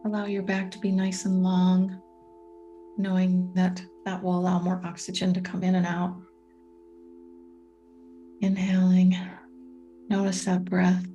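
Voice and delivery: calm guiding voice with long, spacious pauses; guided meditation. Real, not acted. Coach guiding listeners through a meditation on patience, calm and unhurried. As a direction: lead them gently into stillness, leaving room to breathe.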